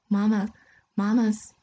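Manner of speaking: put-on a touch of a crying child calling for mama. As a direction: call out for mama through light tears. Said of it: "You're crying".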